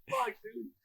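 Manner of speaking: very high, breathless disbelief; groaning in shock at the death; squeaky groan. Retold or imitated. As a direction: whimper it in shock. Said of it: "I was like".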